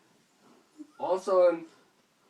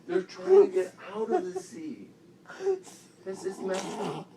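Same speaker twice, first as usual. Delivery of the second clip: high, giggly insistence; high voice breaking into giggles; laughing through words; 14 semitones higher, 4 dB louder than usual. Real, not acted. Cracking up while insisting on story.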